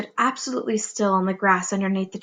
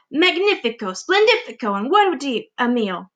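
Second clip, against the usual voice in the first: high, rapturous praise; greedy aunt gushing; gushing excitement; 3 semitones higher than usual. Acted. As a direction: gush over the feast to come.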